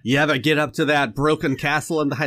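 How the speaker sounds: a bad, hammed-up Scottish accent pitched a little high; terrible Scottish accent. Jokingly asking about the castle, in a bad Scottish accent. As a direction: play a clumsy Highlander in a mock Scottish accent. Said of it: "That's a terrible Scottish accent".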